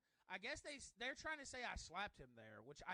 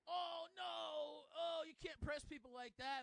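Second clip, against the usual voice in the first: higher, whiny imitation of a scold; mildly raised mocking voice; 9 semitones higher, 5 dB louder, slower than usual. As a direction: mimic a prissy scold, higher. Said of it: "and he's like".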